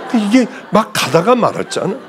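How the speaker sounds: ordinary delivery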